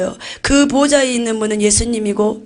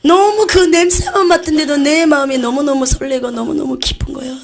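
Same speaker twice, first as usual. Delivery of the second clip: ordinary delivery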